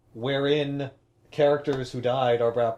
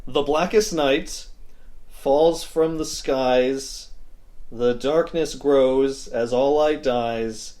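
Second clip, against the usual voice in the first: solemn incantation; 2 semitones higher, much slower than usual. Pretend. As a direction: intone it like a dark spell. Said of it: "incantation from this book here".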